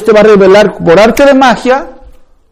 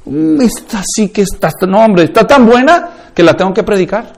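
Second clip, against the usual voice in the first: high, swooning mock delight; lightly hammed-up excited Bible reader; mocking gushy believer; 4 semitones higher than usual. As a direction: parody a believer thrilled by a verse. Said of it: "ahí dices".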